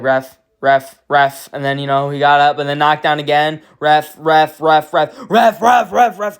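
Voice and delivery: urgent chant for the ref to stop it; calling the ref. Retold or imitated. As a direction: fan yelling ref ref at the cage, building. Yelling at referee to stop fight.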